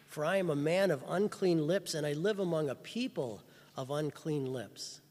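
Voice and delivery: cried out. Retold or imitated. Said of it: "cried out".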